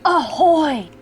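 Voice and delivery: hearty loud ahoy; pirate shout. Shown as a demonstration. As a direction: call it out like a pirate. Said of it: "just shout".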